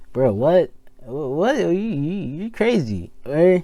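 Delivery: a light impression of a stunned fan; mock disbelief. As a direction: react like a fight fan who can't believe it. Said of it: "if you know combat sports, like".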